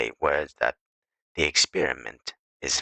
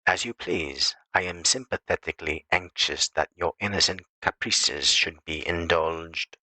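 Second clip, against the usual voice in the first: indulgent tenderness. Shown as a demonstration. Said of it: "it will depend on your tone whether you convey".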